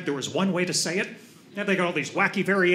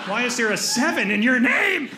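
exasperated; 4 semitones higher than usual. Acted. Exasperated outburst over absurd name.

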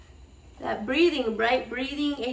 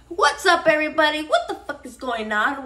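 hype greeting; 3 semitones higher, 4 dB louder than usual. Real, not acted. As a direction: hype up the audience. Vlog greeting shout.

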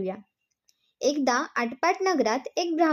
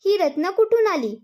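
a sharper, higher suspicious question; surprised question; 5 semitones higher, 3 dB louder than usual. Acted. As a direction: demand to know, taken aback. Husband demands about jewels.

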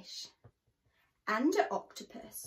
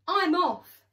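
higher, louder panicked exit; fleeing cry; 6 semitones higher, 9 dB louder than usual. Acted. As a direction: shout it while running away. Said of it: "he cried".

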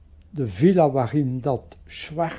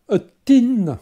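emphatic announcement; 9 semitones higher, 7 dB louder than usual. Real, not acted. Emphatic reveal of tenth scandal.

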